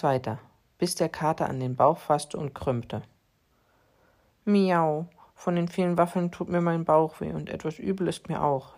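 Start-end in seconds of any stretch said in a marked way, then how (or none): 4.4-8.8 whining. Acted. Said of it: "jammerte er".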